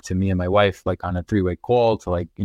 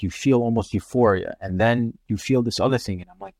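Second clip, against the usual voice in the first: ordinary talk, nothing marked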